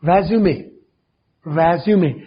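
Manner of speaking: रेज्यूमे as RE-zyoo-may with an open re and a final e; résumé, French word. Shown as a demonstration. Teacher models रेज्यूमे, the CV word, clearly. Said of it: "ये French language का है".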